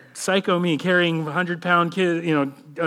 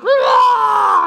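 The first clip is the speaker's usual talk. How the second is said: put-on high, loud kid roar; meltdown roar; 7 dB louder than usual. Father acting out his exhausted kids, high shouted roar. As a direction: let out a tired-kid meltdown yell. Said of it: "And there's like".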